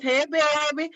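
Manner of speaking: New Orleans greeting, lifted and playful imitation; New Orleans accent. Streamer hailing a viewer from New Orleans, imitated New Orleans accent. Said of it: "I love that New Orleans accent".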